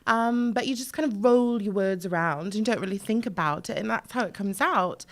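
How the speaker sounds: proper British accent, words rolled around. Shown as a demonstration. Voiceover artist showing off on request, proper British accent. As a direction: put on an easy, rolling English accent. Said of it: "doing an English accent".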